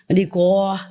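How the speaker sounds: "Đi qua" in the Quảng Nam accent, lightly mimicked. Shown as a demonstration. Teacher teasing the disciple's dialect for students, light Quảng Nam accent. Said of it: "in his area".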